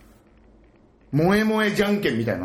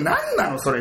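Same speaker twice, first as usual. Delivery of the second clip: incredulous; 4 semitones higher than usual. Retold or imitated. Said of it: "みたいな思うじゃん".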